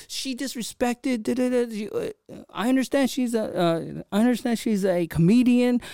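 high-pitched whiny mockery of an angry classmate; mocking angry classmate. Mocking the angry classmate who called him out, high and whiny. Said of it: "these guys were so pissed at me".

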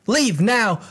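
high, sharp send-off; mock stern order. Acted torn plea from film.

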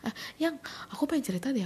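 put-on needy boyfriend begging to share; whiny boyfriend voice. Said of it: "dia tiba-tiba gini".

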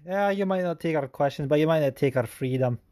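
a mildly imitated limp, reluctant freedom line; half-hearted Scottish delivery of the freedom line; reluctant Braveheart. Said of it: "It's more like".

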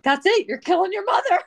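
mock exasperated wail at a child climbing; mock outrage. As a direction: ham up the dying mother. Mock dramatic scolding.

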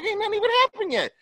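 high, fast, exasperated. Retold or imitated. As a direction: rush it out, fed up. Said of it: "I'm like".

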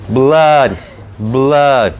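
"Blood" said like "blad", the A closing. Shown as a demonstration. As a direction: demonstrate "blood" with an odd, slightly closed A. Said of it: "pero la vamos cerrando".

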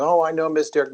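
a hint of an older Southerner's greeting; Howard Coble Southern accent. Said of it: "And he talked like this".

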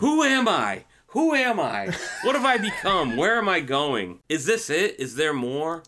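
high, hammed-up soul searching; mock existential crisis. Host mocking his own identity crisis on the podcast, hammed-up. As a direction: ham up a lost man asking who he is.

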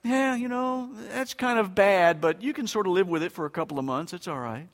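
casual doctor. Retold or imitated. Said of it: "the doctor doesn't say".

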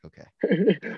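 squeaky okay. Retold or imitated. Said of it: "I'm like".

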